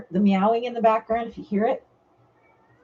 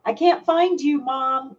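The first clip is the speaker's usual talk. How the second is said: mock cat cry; 4 semitones higher than usual. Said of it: "that cry".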